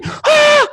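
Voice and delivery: imitated shriek. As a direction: let out a stunned squeal. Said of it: "She went".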